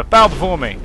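hammed-up dark lord decree. Commanding enemies to bow.

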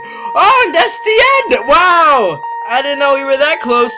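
high, loud astonishment; surprised. Real, not acted. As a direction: exclaim in shock. Surprise at game ending.

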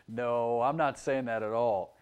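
low, chuckling answer; laugh, then gently deny it; amused denial. Real, not acted. Preacher answering a child's imagined question, laughing.

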